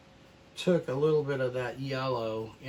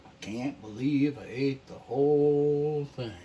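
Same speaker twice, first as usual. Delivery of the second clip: a lightly voiced, louder ad-style quote; mock catchphrase; 5 dB louder than usual. Painter quotes a catchphrase to viewers, hammed-up but light. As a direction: deliver the line like an old TV ad catchphrase.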